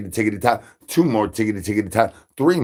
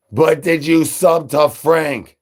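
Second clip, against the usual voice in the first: hype shout; 6 semitones higher, 6 dB louder than usual. Acted. Hyped channel shoutout.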